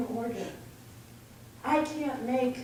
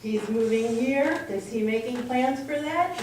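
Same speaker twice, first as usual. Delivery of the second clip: put-on British accent; 5 dB louder than usual. Friend Neil pressing about plans, in a British accent. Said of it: "Neil in his British accent".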